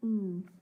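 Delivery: "ng" as one held nasal sound; letter sound. Shown as a demonstration. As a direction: hum "ng" as a single sound, not two letters. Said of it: "N G, which says".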